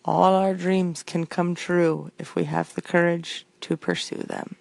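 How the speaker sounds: slow, lofty put-on accent for a quote; quoting Walt in an unplaceable mock accent; unknown put-on accent. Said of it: "I don't know what accent I'm giving you".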